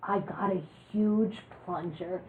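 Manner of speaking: a mild mock stage whisper, softly spaced out. She leans over to her doctor, mock stage whisper. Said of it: "in a stage whisper, I said".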